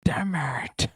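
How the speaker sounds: whispered damn it; whispered curse. Real, not acted. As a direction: curse under your breath. Caught out in the game.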